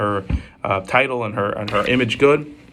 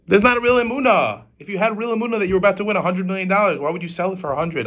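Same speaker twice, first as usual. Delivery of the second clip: rebuking exclamation; 8 semitones higher than usual. Acted. Rav rebukes the man's lacking faith.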